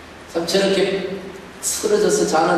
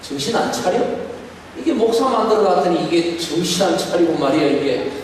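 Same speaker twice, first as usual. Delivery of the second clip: mock scolding. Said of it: "이렇게 하신다면".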